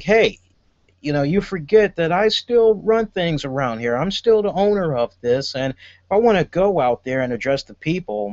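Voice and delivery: mock Dixie with a clumsy New York accent; bad New York accent. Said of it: "the worst New York accent I just did".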